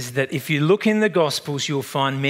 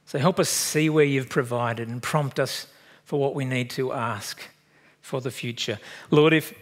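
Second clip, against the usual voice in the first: closing prayer. Acted. Pastor leads closing prayer.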